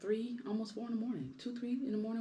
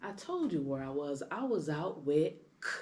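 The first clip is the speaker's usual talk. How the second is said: cool and calm; 2 semitones lower, 5 dB quieter than usual. Retold or imitated. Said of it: "He's so cool and calm and collective".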